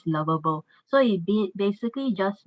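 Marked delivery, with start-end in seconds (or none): 0.1-0.6 "lovable" modelled as "LUV-uh-bul"; teacher's model of "lovable", stress on the first syllable; pronunciation demo. Shown as a demonstration. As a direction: show learners "lovable" in three syllables. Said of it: "so it's pronounced as".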